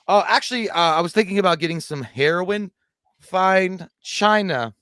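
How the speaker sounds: high, loud goofy stoner voice; hammed-up stoner asking for heroin; movie character voice. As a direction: play the clueless customer, big and silly. Acting out movie scene voice.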